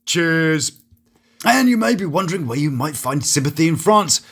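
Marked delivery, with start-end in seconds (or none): 0.1-0.7 blunt bursts, one word at a time; imitated loud tourist order; shouting tourist. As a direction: bark it out like a tourist pointing at things. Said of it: "point and shout like most tourists do".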